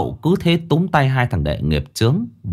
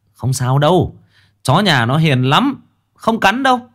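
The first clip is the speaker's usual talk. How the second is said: calling out reassuringly; 10 semitones higher than usual. A narrator's reading. Secretary calling out from the house, high and reassuring. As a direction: reassure them from a distance. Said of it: "nói vọng ra".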